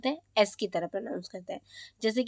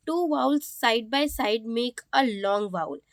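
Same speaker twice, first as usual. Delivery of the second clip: "Two vowels side by side make a long vowel" read out slowly; slow rule reading; much slower than usual. Acted. Teacher reading rule two slowly to students. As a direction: lay the rule down word by word.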